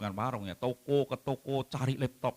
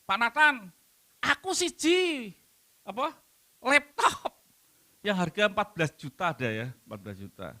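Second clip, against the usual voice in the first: lightly voiced child, higher at the start; child pleading; 6 semitones higher, 3 dB louder than usual. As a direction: beg like a small neighbour kid. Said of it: "jenenge Jono".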